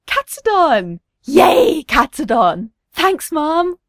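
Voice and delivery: put-on excited little boy, high and loud; gleeful high-pitched exclamations; happy cry. A narrator's reading. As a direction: cheer with childlike delight. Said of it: "he gasps happily".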